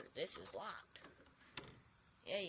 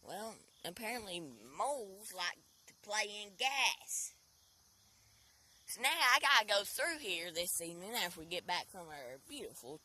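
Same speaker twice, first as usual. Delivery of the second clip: frustrated rant; 3 semitones higher, 10 dB louder than usual. Real, not acted. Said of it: "angers me".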